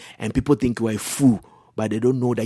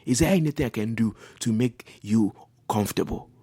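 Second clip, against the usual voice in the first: softer, placating apology after the yelling; calm apology; 3 dB quieter than usual. Acted. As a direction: soothe an angry spouse, gently acted. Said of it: "I will just calm down and say".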